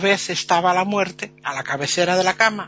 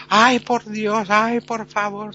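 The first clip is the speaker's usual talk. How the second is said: drawn-out, higher crying plea, slow; mock wailing plea; 4 semitones higher, 4 dB louder, slower than usual. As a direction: stretch each ay like half-hearted weeping. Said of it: "todo el mundo llorando". (súplica llorosa, lenta y aguda)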